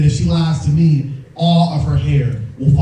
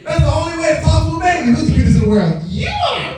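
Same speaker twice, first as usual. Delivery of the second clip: put-on very high, louder cooing baby talk; 11 semitones higher, 4 dB louder than usual. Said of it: "talks to him in gay voice".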